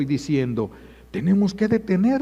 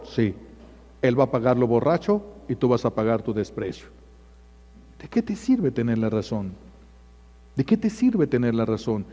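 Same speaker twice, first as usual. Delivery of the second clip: usual speaking voice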